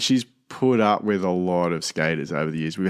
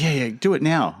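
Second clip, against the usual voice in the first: higher, lightly imitated eager mum; urging mum; 7 semitones higher than usual. Mum tells son to skate the hill, mock urging. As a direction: egg a child on in mum's voice.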